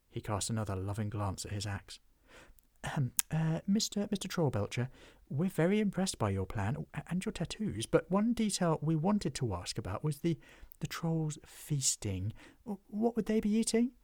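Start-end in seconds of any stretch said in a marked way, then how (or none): 2.8-13.9 high, hesitant stammering question; nervous goblin. Acted. Goblin timidly asking the dwarf what trolls eat, high and stammering. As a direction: stammer politely in fear.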